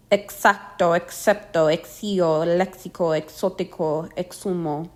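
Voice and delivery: Exacto, excepto, lexico with X said as ks. Shown as a demonstration. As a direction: say exotico with the ks sound heard in works. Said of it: "like the sound of X in works".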